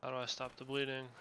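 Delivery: loud panicked question; panic, bleeding out, demanding answers. Real, not acted.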